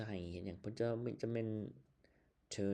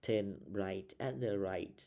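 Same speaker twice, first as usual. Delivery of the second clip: slow confusable demo; much slower than usual. Shown as a demonstration. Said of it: "this is about confusion".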